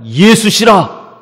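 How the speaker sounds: loud, long-drawn announcement; proclaiming. Acted. Someone in the crowd announcing Jesus, proclaiming. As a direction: proclaim the name slowly and loudly.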